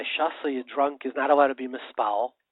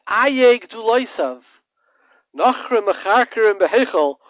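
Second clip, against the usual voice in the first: slow, higher, louder lament; a hint of a grieving prophet; mournful lament; 7 semitones higher, 8 dB louder than usual. Daniel lamenting the destroyed Temple, mildly mournful. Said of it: "Daniel came and he said".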